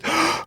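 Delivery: soft, high yawn-like "ah"; light, airy sigh up high; yawn demo. Shown as a demonstration. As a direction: yawn gently on a high note. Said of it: "And you just this".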